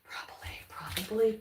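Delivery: soft whisper to herself; whispered aside. Real, not acted. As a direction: breathe it out as a private aside.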